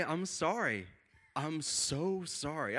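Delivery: soft, drawn-out apology; apologetic. Retold or imitated. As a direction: plead forgiveness meekly. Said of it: "I've never been so apologetic".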